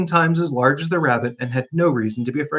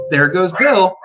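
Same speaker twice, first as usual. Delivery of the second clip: chorus cheering; 4 semitones higher, 5 dB louder, slower than usual. Acted. Chorus of animals.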